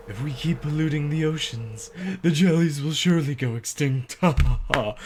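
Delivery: villain voice with a gloating laugh; slow theatrical villain menace. Acted. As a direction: gloat over the coming extinction. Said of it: "I've got a villain voice now".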